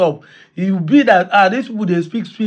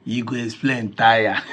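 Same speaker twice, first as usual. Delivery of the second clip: chuckling, softer mocking line; laughing through words; 7 semitones lower, 5 dB quieter than usual. Real, not acted. Commenter teasing the denier, laughing as he speaks. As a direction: laugh as you tease.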